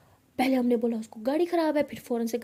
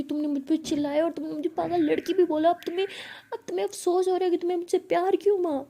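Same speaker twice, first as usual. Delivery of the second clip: higher-pitched, wounded protest, rushing at the end; acted upset, voice pitched up in hurt; tearful accusation; 5 semitones higher, faster than usual. Bhavna accuses Pihu of regretting their love, tearful accusation. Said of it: "ऐसे कि बहुत रो रही थी".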